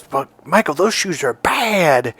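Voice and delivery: slow, drawn-out admiring bad; brother's cool slang. Older brother repeating the compliment, slow and drawn out. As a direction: savor every word. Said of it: "my older brother again goes".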